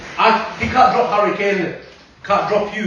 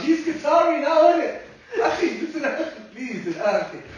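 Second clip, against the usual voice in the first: put-on Arab accent; 8 semitones higher, 3 dB quieter than usual. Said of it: "You're doing your Arab accent then".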